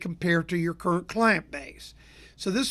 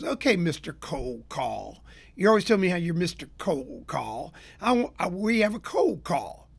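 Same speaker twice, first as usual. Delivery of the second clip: smirking tease. Retold or imitated. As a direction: needle him with a smirk, dragging out the opening. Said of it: "she looks at me with a big smirk".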